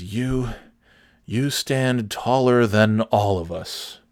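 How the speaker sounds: slow, lightly acted earnest compliment; solemn tribute. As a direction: spell it out slowly as a mock tribute. Acting the kneeling man's compliment.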